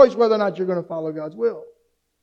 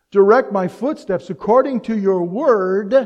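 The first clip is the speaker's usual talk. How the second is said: slow, deliberate scripture reading; measured verse recital; 4 dB louder, slower than usual. Acted. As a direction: read the verse slowly and solemnly. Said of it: "as Psalm one nineteen, one thirty-three says".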